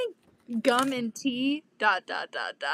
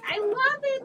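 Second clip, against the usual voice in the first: imitating the co-host; 10 semitones higher than usual. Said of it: "you're gonna be like".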